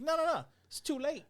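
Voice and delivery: hammed-up frantic no no no; mock panic. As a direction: squeal it in mock despair. Comedians voiced in retold story.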